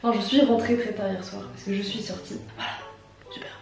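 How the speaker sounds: vocal fry; voix du matin. Real, not acted. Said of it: "avec une voix du matin". (voix grave et éraillée du réveil)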